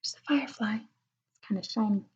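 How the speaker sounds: hushed pointing-out whisper. Acted. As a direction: whisper as if not to wake anyone.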